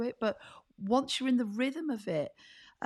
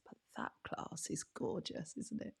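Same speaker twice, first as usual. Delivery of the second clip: whispered aside; 4 semitones lower, 13 dB quieter than usual. Real, not acted. Hushed aside about the class.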